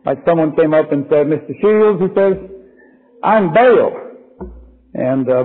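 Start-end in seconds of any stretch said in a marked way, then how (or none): 1.3-4.0 mock Southern drawl, a bit higher; imitating a Southern churchgoer in a Southern accent; light Southern accent imitation. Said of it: "the accent".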